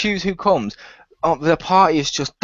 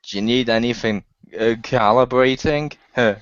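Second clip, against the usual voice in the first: Garrus; 5 semitones lower than usual. Retold or imitated. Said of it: "he starts to go".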